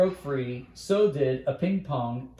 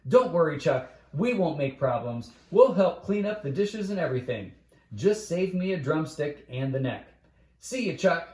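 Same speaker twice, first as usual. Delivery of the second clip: talking right over him; 3 semitones higher than usual. Acted. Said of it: "talked right over him".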